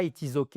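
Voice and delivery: 'ok' with a pure French 'è', unstressed; quick, even 'it is ok' without glide; French-style pronunciation. Shown as a demonstration. Teacher mimicking a French learner's mistake, French-sounding 'ok'. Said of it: "En anglais, on dit pas".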